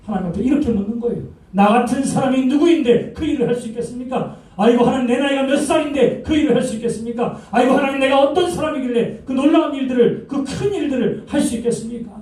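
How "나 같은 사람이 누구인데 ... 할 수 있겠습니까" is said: high, whining protest with a nervous laugh; pleading Moses. Retold or imitated. Preacher voicing Moses begging God to excuse him, raised pleading tone. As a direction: beg off like a reluctant Moses, voice raised.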